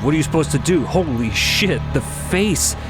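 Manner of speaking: usual speaking voice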